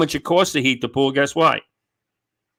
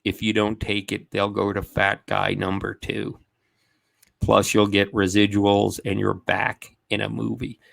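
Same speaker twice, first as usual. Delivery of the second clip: manager's ultimatum; 5 semitones lower, 6 dB quieter than usual. Retold or imitated. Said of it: "He goes".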